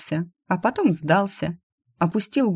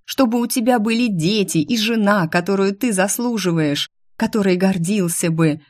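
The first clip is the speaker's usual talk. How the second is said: shouting; 4 semitones higher than usual. Acted. Still yelling at the demon.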